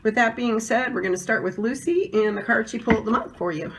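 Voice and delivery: hoarse voice from a cold; sick voice. Real, not acted. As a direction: speak through a sore, sick throat. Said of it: "as you can hear from my voice, I'm sick right now".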